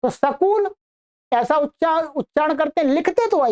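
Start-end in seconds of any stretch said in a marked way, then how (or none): 0.1-0.8 सकूल with a vowel between s and k; Haryana pronunciation. Retold or imitated. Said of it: "वहां सकूल बोलते हैं". (हरियाणवी "सकूल", "स" और "क" के बीच "अ")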